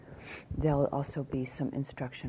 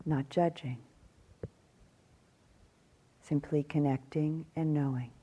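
calm meditation guidance with long pauses; measured phrases, spaced out by silence; guided meditation. Acted. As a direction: guide them gently through the body, leaving long silences.

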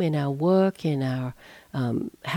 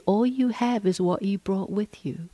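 whisper. Real, not acted. Teacher whispering to retreatants about simplicity, a whisper. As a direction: breathe it as a secret to the room.

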